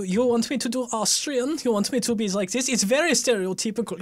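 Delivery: put-on stereotypical Austrian accent; overdone Austrian accent. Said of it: "Can you do an Austrian voice?".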